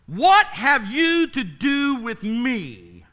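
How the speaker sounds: slow, hostile demand; mock confrontation with a listener; cold demand. Shown as a demonstration. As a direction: ask it coldly, almost accusing. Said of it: "if I walked up to you and I said to you".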